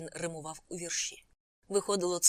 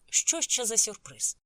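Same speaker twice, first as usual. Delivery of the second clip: louder, higher, drawn-out question; shouted question; 4 semitones higher, 6 dB louder, slower than usual. A narrator's reading. Passenger asking the driver about a surprise, calling out. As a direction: call the question out slowly. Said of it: "крикнув я у відповідь".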